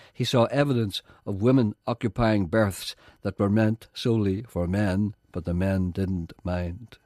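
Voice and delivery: deliberate, formal announcer read; scripted link read. Acted. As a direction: read it out like an introduction to a programme. Reads the scripted programme link.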